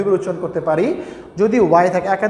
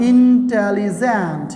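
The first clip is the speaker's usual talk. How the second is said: slow, drawn-out syllables in "ইন্টেলিজেন্ট"; "ইন্টেলিজেন্ট" slowly broken into syllables; much slower than usual. Shown as a demonstration. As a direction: stretch out each syllable of "ইন্টেলিজেন্ট" to show how many. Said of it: "একাধিক syllable হলে".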